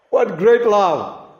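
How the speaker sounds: slow, marvelling, with a laugh; laughing delight at great love; laughing exclamation. Real, not acted. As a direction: savour it with a little laugh of wonder. Preacher exclaims over God's love.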